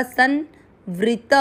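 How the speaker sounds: संवृत with half न, very slow; very slow demo. Shown as a demonstration. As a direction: stretch संवृत, half न nasal. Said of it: "ये आधा न ऐसे ही पढ़ा जाएगा".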